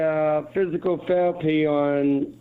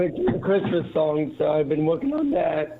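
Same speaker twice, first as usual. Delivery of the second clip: rough, raspy voice from a cold; gravelly sick voice; faster than usual. Real, not acted. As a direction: croak it out through a bad cold. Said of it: "I'm laughing at your voice".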